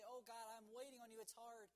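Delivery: mildly acted prayer of someone struggling; crying out. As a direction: plead upward, then ease off. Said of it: "cry out to God".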